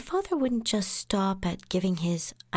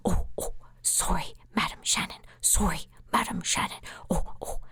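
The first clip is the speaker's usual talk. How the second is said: hushed, unvoiced sorry, Madam Shannon; soft whispered apology. Big client whispering sorry to his lawyer. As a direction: whisper the apology like a scolded giant. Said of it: "And he would go really soft".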